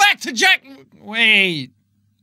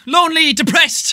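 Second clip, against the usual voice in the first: normal talking voice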